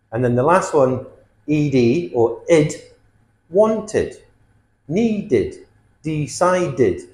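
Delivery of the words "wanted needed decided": "wanted, needed, decided" each with a separate final id; id ending. Shown as a demonstration. Teacher models the last ending, "wanted, needed, decided" with id. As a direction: sound out the added syllable in "wanted, needed, decided". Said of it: "this adds a syllable".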